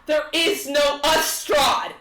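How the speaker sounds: high, loud frantic scream. Acted. Bride screams at Strahd, frantic and loud. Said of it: "she screams now, frantic".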